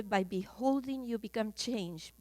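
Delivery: "By beholding you become changed" said slowly, softly, in English; slow, soft English phrase; English quote, slow and soft. Shown as a demonstration. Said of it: "En inglés se dice". (cita lenta y suave en inglés)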